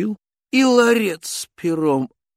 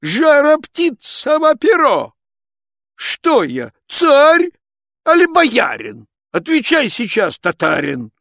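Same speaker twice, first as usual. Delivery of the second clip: angry tsar shout; 11 semitones higher, 6 dB louder than usual. Acted. Angry tsar demands the feather.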